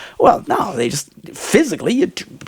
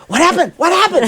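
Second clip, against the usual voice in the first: surprised; 11 semitones higher than usual. Retold or imitated. Asking the laughing family.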